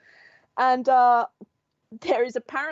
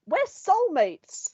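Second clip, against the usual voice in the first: mock earnest lover; 9 semitones higher, much slower than usual. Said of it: "They'll be like".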